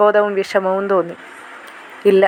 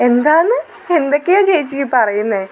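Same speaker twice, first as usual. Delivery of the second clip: put-on surprised girl; 4 semitones higher than usual. Younger sister surprised question.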